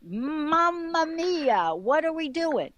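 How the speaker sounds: mock despair at your own life; exasperated grumble. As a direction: negative mantra acted as exasperation. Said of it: "It's usually more like".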